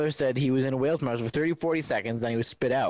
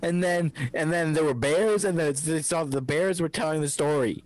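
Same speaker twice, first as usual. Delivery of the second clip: excited; 6 semitones higher than usual. Real, not acted. Mocking exaggerated retelling.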